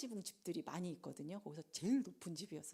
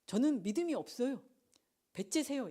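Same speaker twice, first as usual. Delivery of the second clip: higher-pitched mock defiance; brazen refusal; 5 semitones higher, 3 dB louder than usual. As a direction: act out a cheeky, take-it-or-leave-it admission. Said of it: "이게 아니라". (배째라는 식으로 뻔뻔하게 흉내)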